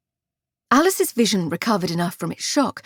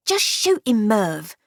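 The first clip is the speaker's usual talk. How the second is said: rough thug; slower than usual. Acted. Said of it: "one said".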